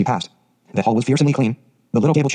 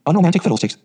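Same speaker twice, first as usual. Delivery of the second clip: higher-pitched, mildly scornful dismissal; unsympathetic scoff; 6 semitones higher than usual. A narrator's reading. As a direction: brush it off without sympathy. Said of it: "said the unsympathetic Marilla".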